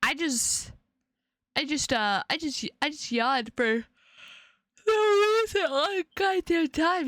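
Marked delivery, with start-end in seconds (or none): 4.9-7.1 louder and much higher, fed up; exasperated outburst. Real, not acted. Streamer fed up with her endless yawning, exasperated outburst. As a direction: blurt it out in frustration at the constant yawning.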